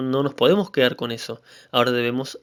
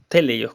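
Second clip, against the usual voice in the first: "teleios" with the accent on TE; stress on first E. Shown as a demonstration. Preacher repeating the Greek for perfect, "teleios" accented on first E. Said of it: "con acento en la primera E".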